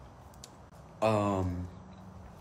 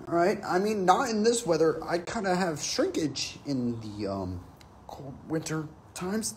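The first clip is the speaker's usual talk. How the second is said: higher, awkward flustered rambling; flustered agreement; 5 semitones higher than usual. Retold or imitated. Soldier flustered by the sergeant, higher. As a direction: squirm through an embarrassed answer. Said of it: "And I was like".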